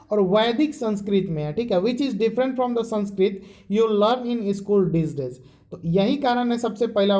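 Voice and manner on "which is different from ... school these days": very slow, deliberate reading, each word spaced; slow textbook reading. Shown as a demonstration. Teacher reading the textbook line to students, very slow. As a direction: read it out so students can follow every word.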